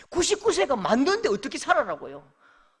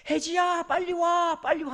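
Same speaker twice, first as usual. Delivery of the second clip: higher, calling across the stream; 8 semitones higher, slower than usual. Retold or imitated. Father calls his daughter across the stones, raised voice. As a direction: call the daughter over from the far bank.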